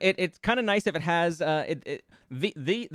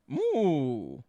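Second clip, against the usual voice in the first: long falling moo; mock cow moo; 5 semitones lower than usual. Streamer goofing between lyric attempts, mooing.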